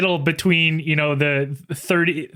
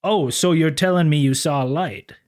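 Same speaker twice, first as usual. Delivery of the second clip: a humble, overly polite officer of the law; mock-gentlemanly lawman; prim officer. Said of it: "Sisko was actually a Southern law enforcement officer".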